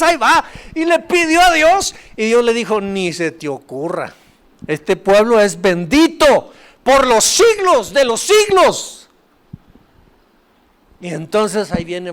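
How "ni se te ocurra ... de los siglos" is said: God forbidding. Retold or imitated.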